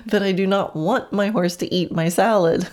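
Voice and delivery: said through a laugh; laughing while trying to assert it; amused. Real, not acted. Owner asserting a claim to the salad, amused.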